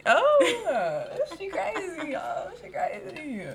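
high, delighted teasing call-out; excited teasing. Real, not acted. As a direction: call her crazy, thrilled. Teasing friend to listeners.

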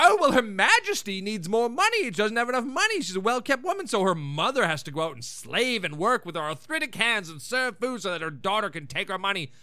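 mock spiteful mother's complaint; mean mother. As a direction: imitate a mother sarcastically playing the martyr. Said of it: "her mom's being so mean".

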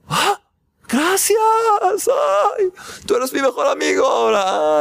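very high, tearful thanks; sudden gratitude. Retold or imitated. Rescued man thanks his rescuer, high and tearful. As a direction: gush with relief.

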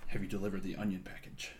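orderly military. Retold or imitated. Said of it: "orderly military".

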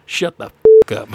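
lightly done gruff cowboy growl, loud on shut; a hint of Sam Elliott's grovelly voice; gravelly Sam Elliott. Quoting Sam Elliott's line to a friend, mock gruff growl. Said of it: "nice and grovel voice".

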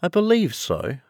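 high, lightly thoughtful Alice. Acted. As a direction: muse in a high little voice. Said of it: "Alice replied thoughtfully".

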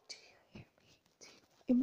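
breathy mock whisper; barely audible whisper; whispering as if unable to speak up. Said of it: "whispering and going like".

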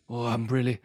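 mopey, put-out northern accent; lightly put-on disgruntled northerner; northern English accent. Shown as a demonstration. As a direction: grumble mildly with a northern accent. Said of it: "give 'em a northern accent".

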